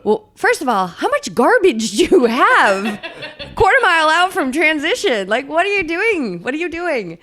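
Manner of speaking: high, laughing mock disbelief; incredulous. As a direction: scold him as if amazed.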